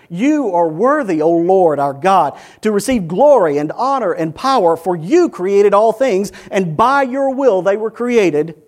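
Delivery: loud, fervent praise, stretched out; exalted proclamation. Acted. Elders laying crowns before God, exalted loud proclamation. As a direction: proclaim it to the throne with force.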